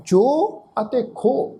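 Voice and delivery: ਜੋ and ਖੋ as open syllables, ending on the vowel; ਸਿਹਾਰੀ silent. Shown as a demonstration. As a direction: say ਜੋ and ਖੋ slowly with a long o, no final hi. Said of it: "ਉਚਾਰਨ ਅਸੀਂ ਨਹੀਂ ਕਰਾਂਗੇ". (ਸਿਹਾਰੀ ਤੋਂ ਬਿਨਾਂ ਲੰਮਾ 'ਜੋ', 'ਖੋ')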